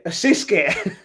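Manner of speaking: delighted to have worked it out; amused exclamation. Shown as a demonstration. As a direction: land the word as a punchline.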